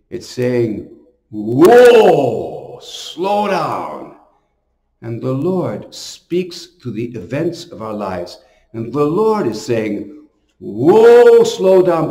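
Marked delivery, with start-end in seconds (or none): 1.3-4.2 a long, easy "Whoa" that eases off into "slow down"; drawn-out calm whoa. Acted. The priest voices covid gently telling people to slow down. 10.6-12.1 a short "Whoa" called out higher and louder, then "slow down" firmly; sharp commanding whoa. Acted. The priest voices the Lord loudly ordering his flock to slow down.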